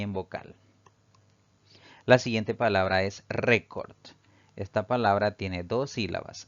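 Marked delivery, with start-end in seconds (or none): 3.3-4.0 RÉ of "récord" given extra weight; "récord" stressed at the start; penultimate stress. Shown as a demonstration. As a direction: lean on the first syllable of "récord". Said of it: "la mayor fuerza de voz recae".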